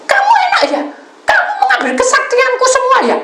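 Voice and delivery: very high, loud shouted accusation; angry caller. Retold or imitated. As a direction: yell as the enraged caller. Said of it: "Telepon orang tadi tuh marah-marah". (bentakan penelepon yang marah)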